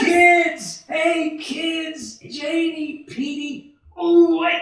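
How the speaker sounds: put-on loud, high call to the kids. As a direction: call them with open joy. Father calls his children.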